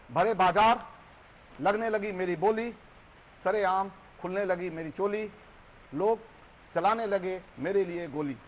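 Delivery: emphatic verse lament in short phrases; declaimed poem monologue. Acted. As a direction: hit each line opening, then pause. (ज़ोर देकर व्यथा भरा कविता पाठ)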